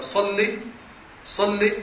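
صل with a single firm doubled lam, no long ending; صل, lam stressed once. Shown as a demonstration. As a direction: tap the lam once, stopping short. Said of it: "يعني لام عليها شدة".

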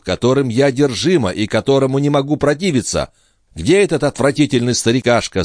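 put-on high anxious girl voice, building fear; agitated young woman. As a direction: accuse him, then spook herself. Lorenza accuses, growing agitated.

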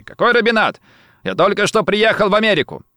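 high-pitched protest; indignant, panicky denial pitched well up; crying out. A narrator's reading. Rossetti denies everything to the gunman, crying out. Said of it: "закричал Рассетти".

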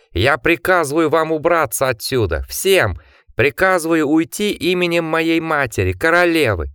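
commanding yell. A narrator's reading. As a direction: order them out in the queen's name. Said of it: "он заорал во всю глотку".

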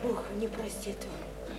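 soft, slow warning; hushed warning. Acted. Woman quietly warning Lyosha about God. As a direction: warn him gently and slowly.

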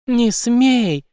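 high, loud forbidding cry; sudden shout. A narrator's reading. Major's mistress forbidding him to talk, sudden shout. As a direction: burst out to stop him. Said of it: "неожиданно закричала его любовница".

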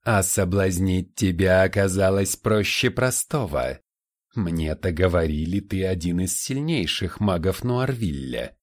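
mock him with an unpleasant rattling voice; rattling demon voice. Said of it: "Голос суккуба приобрёл неприятный дребезжащий тембр".

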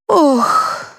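high sighing "oh"; dog sigh. A narrator's reading. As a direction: let out a sigh. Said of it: "вздохнула мафия". (вздох)

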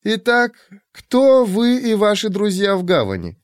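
high, lightly teasing woman. Acted. Shurk voiced.

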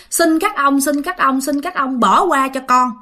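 pleading. Acted. Father begs the ghosts to spare him, pleading. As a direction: beg for mercy in quick repeats.

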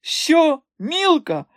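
very high, scornful astonished shriek; mocking disbelief. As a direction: repeat the name as if it were absurd. Madame mocks the rival.

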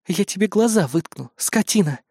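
plain reading voice

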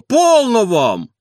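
high, loud, very slow plea; stop it. A narrator's reading. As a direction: draw out полно, high and loud. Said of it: "твердил дворник".

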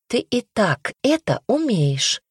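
teasing spite. Acted. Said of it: "вредничала сестра".

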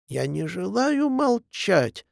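a hill's echo refusing to shut up, a mild hysterical wail; hysterical howl. A narrator's reading. Echo defies the hill, mild hysterical wail. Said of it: "истерически взвыл".

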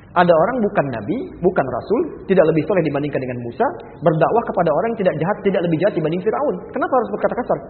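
loud, rising rebuke; preacher raising his voice at harsh speech; forceful preaching. Real, not acted. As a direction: drive the point home with force.

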